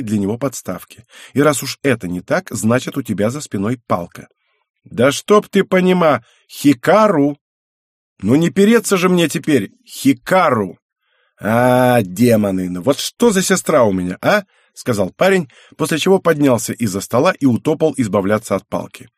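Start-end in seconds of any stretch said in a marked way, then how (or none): 4.8-14.4 loud, high, slower exasperated complaint; young man fed up with his sister, loud exasperated grumble; exasperated outburst. Acted. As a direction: throw up your hands and whine loudly at her. Brother complains loudly about sister.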